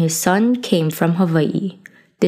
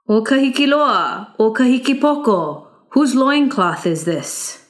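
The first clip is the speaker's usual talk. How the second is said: higher, ringing call to the guards; young hero calling out; 6 semitones higher than usual. Acted. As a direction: call them out, bold and pointed. Youth calls to the guards.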